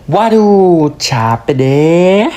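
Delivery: slow, drawn-out weary complaint; acted tiredness. Tired from walking around Japan, weary and drawn out. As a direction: sigh out that you're worn out. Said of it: "Kalau kamu capek jalan-jalan".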